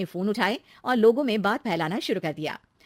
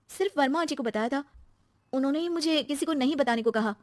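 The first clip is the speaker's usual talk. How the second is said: higher voice explaining herself; defensive young wife; 5 semitones higher than usual. Acted. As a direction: admit it defensively to husband. Narrator voices Shweta. (सफाई देती बहू)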